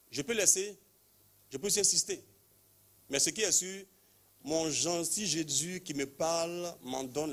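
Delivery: climbing preacher's fervour; rising fervour. Real, not acted. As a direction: lift the voice with conviction.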